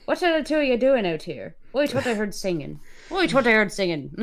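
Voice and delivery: rural dialect, not too thick; a moderately broad country accent. Acted. Reader retrying the villager's line, country accent. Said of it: "it's a lot thicker than that".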